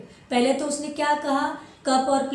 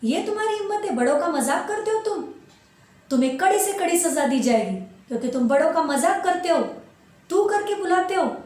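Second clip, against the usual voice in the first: raised, scolding voice of an angry fairy; 3 semitones higher than usual. Acted. Fairy scolds the boy for mocking elders, angry. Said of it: "गुस्से में कहती है कि".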